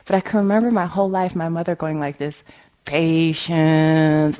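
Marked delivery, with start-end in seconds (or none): 2.8-4.4 growled patience. Retold or imitated. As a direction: growl it through instead of lashing out. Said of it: "this growl sound".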